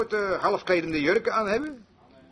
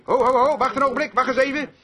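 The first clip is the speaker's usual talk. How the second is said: firm, slightly raised "whoa there"; halting interjection; 3 semitones higher than usual. Retold or imitated. Pastor halting his quarrelling flock, firm interjection. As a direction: step in to stop a squabble.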